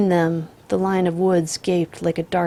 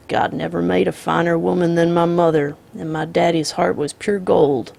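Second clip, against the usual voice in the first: calm drawling outlaw; 4 dB louder than usual. Acted. The Misfit voiced.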